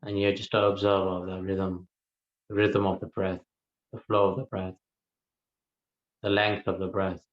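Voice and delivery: calm, even delivery with long pauses; guided meditation. Real, not acted. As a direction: unhurriedly guide listeners into the breath, leaving silences. Leads a guided breath meditation.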